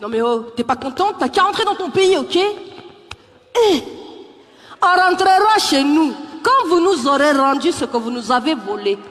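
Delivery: sassy comeback. Retold or imitated. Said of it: "elles ont du tempérament".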